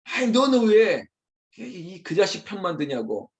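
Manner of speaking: acted exasperated rebuke; irritated outburst. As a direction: lash out at the one taking sides. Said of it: "막 이러면서 역정드는 것처럼".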